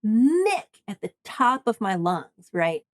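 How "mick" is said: yelling Mick. Retold or imitated. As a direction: call Mick across a roaring crowd. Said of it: "I see him and I yell".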